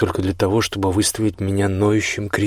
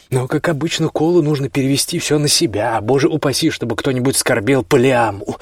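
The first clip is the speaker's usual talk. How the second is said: bitter anger; 4 semitones higher than usual. Acted. Brothers' bitter quarrel.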